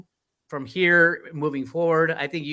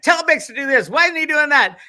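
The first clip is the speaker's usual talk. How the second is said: demanding fan voice; 11 semitones higher, 6 dB louder than usual. Retold or imitated. Fans demanding things from Bix.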